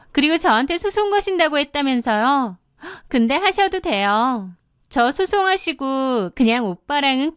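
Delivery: lightly smug taunting; needling. Acted. Mistress telling the wife to just divorce, lightly needling. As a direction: goad her with unruffled entitlement. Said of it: "실실 저를 약올리더라고요".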